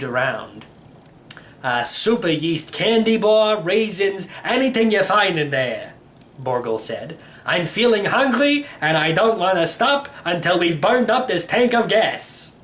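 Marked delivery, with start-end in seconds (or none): 1.6-5.9 put-on old uncle voice. Borgel answers. 7.5-12.5 put-on old uncle voice. Borgel continues.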